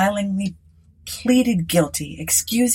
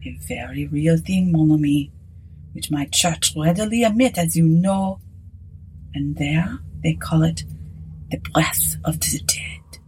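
hushed, half-whispered priest; quiet. Acted. Priest explaining voodoo to Aylett, quietly. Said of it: "The priest replied quietly".

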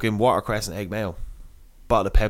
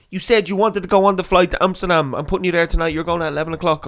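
raised, pressing voice of an airline man; insistent official; 5 semitones higher, 3 dB louder than usual. Retold or imitated. Airline man tells the passenger he's flying tonight, insistent. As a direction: lay down the law in a higher voice.

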